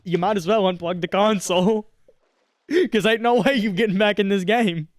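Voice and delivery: loud, jeering game voice; mock taunting. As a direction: tease the player mercilessly.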